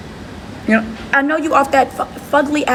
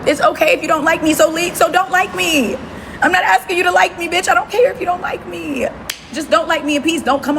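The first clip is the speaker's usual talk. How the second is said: exasperated; 5 semitones higher than usual. Real, not acted. Heated rant, raised pitch.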